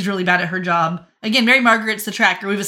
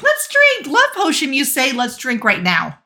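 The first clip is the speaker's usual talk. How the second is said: high, loud, pushy insistence; eager push to drink; 4 semitones higher, 4 dB louder than usual. Retold or imitated. Hook urging Regina to drink with him, hammed-up and loud. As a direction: grab the glass and urge them on.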